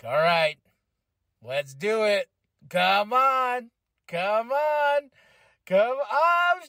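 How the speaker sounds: excited cheering. Retold or imitated. He and wife cheering match on.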